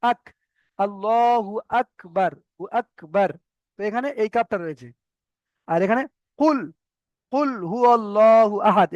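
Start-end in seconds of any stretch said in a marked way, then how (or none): 0.1-3.3 slow "আল্লাহু আকবার" with a light k; drawn-out "আল্লাহু আকবার", k ahead of the tongue root; forward kaf. Shown as a demonstration. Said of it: "আরেকটু আগে আসতে হবে". 6.4-8.9 slow "কুল হু আল্লাহু আহাদ" with a deep q; measured Quranic "কুল হু আল্লাহু আহাদ", heavy q; deep qaf recitation. Shown as a demonstration. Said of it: "এখানে এই কফটা রয়েছে".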